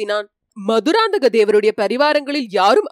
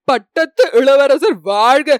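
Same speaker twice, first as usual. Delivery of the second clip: shouted cheer; 5 dB louder, slower than usual. Retold or imitated. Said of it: "சிலர் கூவினார்கள்".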